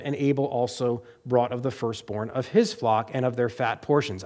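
low, run-through scripture reading; read quickly. Real, not acted. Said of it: "I read that fast".

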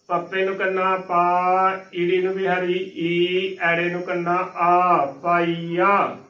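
letter-by-letter chant of ਪਾਈਆ, each vowel held long; spelling out. Shown as a demonstration. Teacher spelling for students, ਪਾਈਆ built syllable by syllable. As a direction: spell ਪਾਈਆ as paa, ee, aa, then join. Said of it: "ਇਸ ਦਾ ਸਹੀ ਉਚਾਰਨ".

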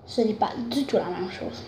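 talking while chewing candy. Real, not acted. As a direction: mouth partly full. Seen 0: bit the candy just before; cheeks puffed, lips pursed while speaking.

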